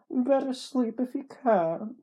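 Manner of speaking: high, slow, loud put-on voice; narrator's character voice. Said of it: "What was the voice I was doing?".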